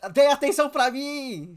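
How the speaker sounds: slow, loud demanding plea for attention; needy whine. Retold or imitated. Friend mocking attention-seeking adults, slow whiny demand.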